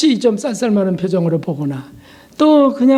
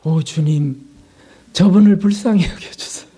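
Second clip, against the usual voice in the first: a mildly lowered, sincere spoken prayer; praying aloud; 4 semitones lower than usual. Retold or imitated. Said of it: "제가 소리 내서 기도했어요". (소리 내어 드리는 잔잔한 기도)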